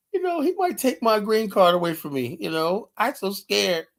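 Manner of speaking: fading imitation of a scared man; mock scared. Caller mocking a panelist over his green card, mock scared. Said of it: "D K is a scary dude".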